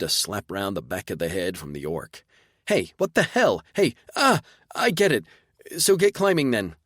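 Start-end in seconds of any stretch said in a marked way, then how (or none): 2.7-6.7 high, loud squealing goblin voice. Acted. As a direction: yelp it like a slapped goblin. Slapped goblin yelps and complains.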